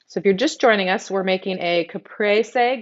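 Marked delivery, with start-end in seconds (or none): 1.8-2.8 caprese with a little Texas twang. Real, not acted. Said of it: "give it a little Texas twang".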